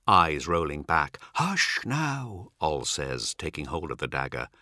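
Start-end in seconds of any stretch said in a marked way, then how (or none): 1.3-2.5 higher, unforced calming tone; gently quiet her down; soothing hush. Acted. Ol calms squealing Cat as he takes the dagger, soothing.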